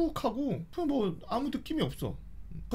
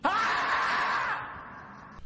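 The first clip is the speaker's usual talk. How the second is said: high, breathy laughing pain cry; 11 semitones higher, 3 dB quieter than usual. Retold or imitated. Boy reliving the sting, high laughing pain cry. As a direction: let out a burning pain cry.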